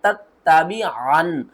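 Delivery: slow, careful tajweed repeat; Quran recitation demo. Shown as a demonstration. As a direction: chant it slowly, leaning on each syllable. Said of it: "इनको किस तरह पढ़ना है". (ठहर-ठहर कर क़िराअत)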